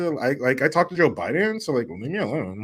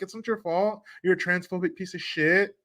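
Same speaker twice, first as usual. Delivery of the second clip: higher, mock-sweet backhanded voice; sugary mock compliment, higher pitched; mocking Dylan Mulvaney; 4 semitones higher than usual. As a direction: imitate a fake-kind put-down in a higher voice. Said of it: "even says it like this".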